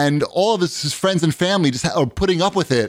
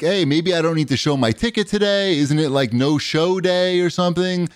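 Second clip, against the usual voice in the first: slightly raised, mock-jokey needling; imitated joking; 4 semitones higher than usual. Train passenger to the conductor at ticket check, imitated joking. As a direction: imitate a guy kidding around. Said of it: "joking with the conductor".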